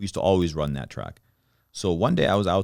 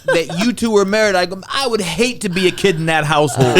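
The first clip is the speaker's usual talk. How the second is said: laughing; 13 semitones higher, 7 dB louder than usual. Real, not acted. Teasing friends about their mean first impression, laughing. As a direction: giggle through the teasing story.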